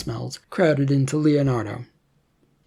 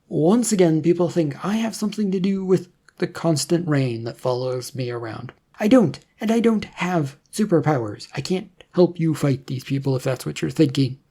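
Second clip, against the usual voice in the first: put-on defensive young man; 3 semitones higher than usual. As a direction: push back on the rumour, mildly irritated. Leonardo protests.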